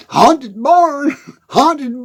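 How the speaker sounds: "Haunted barn" said deliberately, then "Haunted" breaking off; tongue-twister attempt. Shown as a demonstration. Trying "Haunted barn" three times, deliberate attempt. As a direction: try repeating "Haunted barn" without tripping. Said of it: "say that three times".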